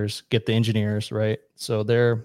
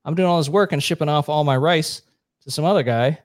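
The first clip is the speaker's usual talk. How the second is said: higher pitched mock complaint from a farmer; fed-up farmer; 4 semitones higher than usual. Collectivized Vietnamese farmers grumbling about shipped-off rice, mock whine, higher. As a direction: whine it like a worker sick of giving away his rice. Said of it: "and they said".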